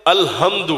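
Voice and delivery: الحمد with a plain h, əl-hamd; common mispronunciation. Shown as a demonstration. Preacher imitates common people's الحمد, plain h. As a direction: mimic the careless الحمد with a light h. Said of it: "عام لوگ کیا پڑھتے ہیں؟".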